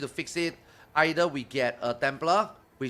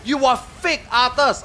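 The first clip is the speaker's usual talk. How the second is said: slow, higher, louder mock viewer whine; mocking Russian viewers; 7 semitones higher, 6 dB louder, slower than usual. Streamer mocks Russian fans calling him fake, slow mock whine. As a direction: parody the accusing fans, drawn out. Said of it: "Russian viewers that is like".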